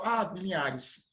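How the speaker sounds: ordinary delivery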